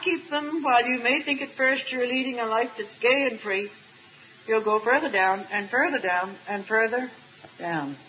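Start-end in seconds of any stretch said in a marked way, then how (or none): 4.5-8.0 sinking lower and lower. Acted. Voice sinks with "further down.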